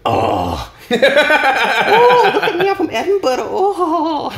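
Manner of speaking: high, laughing put-on posh voice; mock snooty posh voice, cracking up; mocking posh Edinburgh voice. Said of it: "who were just like".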